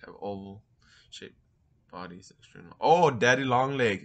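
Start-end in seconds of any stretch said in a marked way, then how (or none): 2.8-4.0 sudden realization. Real, not acted. Suddenly remembers the spider name.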